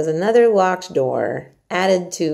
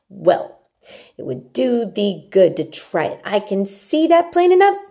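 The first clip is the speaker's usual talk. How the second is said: loud, higher, blunt Yorkshire maid; outspoken Martha; 4 semitones higher, 5 dB louder than usual. Acted. Martha scolds Mary bluntly about her appetite. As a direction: tell her straight. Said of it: "she said outspokenly".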